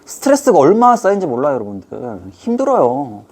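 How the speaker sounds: ordinary talk, nothing marked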